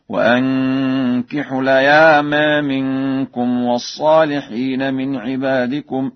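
slow chanted recitation, "الأيام" ending in a half-tilted e; taqlil. Shown as a demonstration. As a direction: tilt the last a of "الأيام" toward e. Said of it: "التقليل في ذوات الياء والراء". (ترتيل مع تقليل ألف "الأيام")

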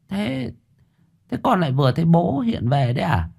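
a stunned mother asking in disbelief; lightly voiced mother asking, faltering; hesitant mother.

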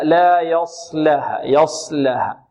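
slow يصلها with heavy ص, lips relaxed; يصلها with a full heavy ص and light lam; emphatic unrounded ص. Shown as a demonstration. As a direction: draw out لا يصلها without pursing the lips. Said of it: "هكذا".

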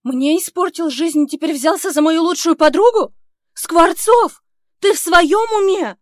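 намного выше и громче, срываясь; кричать, трясясь от возмущения; возмущённый крик. Acted. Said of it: "меня аж трясёт". (героиня в ярости кричит на Скворцова)

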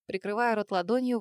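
plain reading voice

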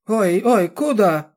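put-on high, loud shrieking old woman; a panicked old woman shrieking after the man; old woman wailing. A narrator's reading. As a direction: wail it out like a frantic granny. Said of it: "вопила старуха".

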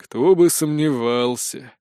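slow, weary repeat; sighing. Acted. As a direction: drag it out with a sigh. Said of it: "вздохнул Спирт". (усталый вздох)

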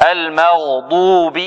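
المغضوب عليهم read slowly; slow Quranic reading; slow recitation. Shown as a demonstration. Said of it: "teacher recites verse".

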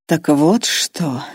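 drawn out very slowly; slow drawl. Acted. The old man grasps Irma's motive, drawling slowly. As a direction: stretch the words as it dawns on him. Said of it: "медленно протянул старик".

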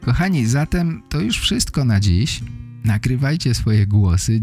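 usual speaking voice

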